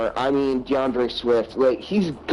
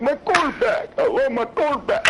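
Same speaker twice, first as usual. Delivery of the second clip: very high, hammed-up tearful wail; mock crying; 13 semitones higher than usual. Player crying on stage for attention, mock crying. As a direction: fake a blubbering cry, pitched way up. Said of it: "cry on front of the stage".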